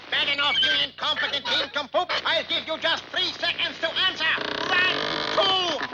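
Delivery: ranting dictator speech. Acted. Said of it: "the mad dictator's voice rose".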